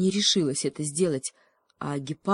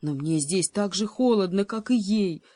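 complaining cheetah; 3 semitones higher than usual. Acted. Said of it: "пожаловался гепард".

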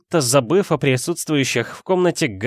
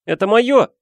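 put-on high, loud boyish protest; Harry shouting; 10 semitones higher, 5 dB louder than usual. A narrator's reading. Boy grabbing at his letter, high indignant shout. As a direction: cry out to claim what is yours. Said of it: "крикнул Гарри".

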